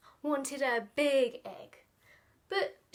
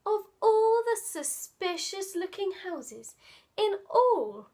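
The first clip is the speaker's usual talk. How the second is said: story reading. Acted.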